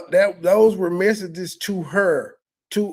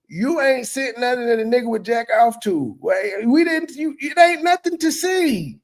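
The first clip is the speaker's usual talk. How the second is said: rising to a real shout on the middle line, higher all through; incredulous rant; 5 semitones higher than usual. Real, not acted. Ranting at the woman's pictures.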